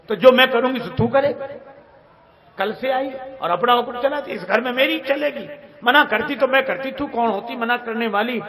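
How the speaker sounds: mother-in-law berating her daughter-in-law; scolding rant. Retold or imitated.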